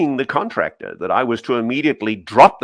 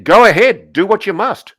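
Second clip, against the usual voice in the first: mock defiant quote; 9 semitones higher, 8 dB louder than usual. Reading quote from contractors.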